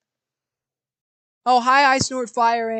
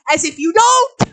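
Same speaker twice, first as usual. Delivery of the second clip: rising into laughter; 7 semitones higher, 8 dB louder than usual. Acted. Arthur's joke, building to laugh.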